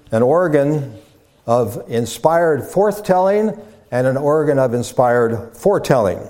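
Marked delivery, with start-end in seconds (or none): 1.5-6.2 "inspired" set out with deliberate emphasis. Real, not acted. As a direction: lean on the word "inspired" each time it comes. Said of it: "with emphasis on the word inspired".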